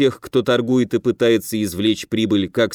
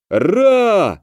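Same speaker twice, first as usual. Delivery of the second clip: loud high roar of many men; pirates' cheer; 9 semitones higher, 4 dB louder than usual. A narrator's reading. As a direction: cheer back at the captain. (громкий дружный рёв)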